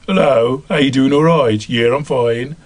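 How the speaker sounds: friendly Midlands Black Country greeting; Midlands accent. Shown as a demonstration. Actor showing how Midlands people talk, Midlands accent. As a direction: chat like a local from the Midlands. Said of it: "everybody talks like this in the Midlands".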